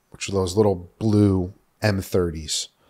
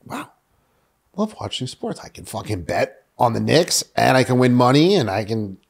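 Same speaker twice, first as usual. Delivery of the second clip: excited; 4 semitones higher than usual. Retold or imitated. Excited recalled thrill of betting.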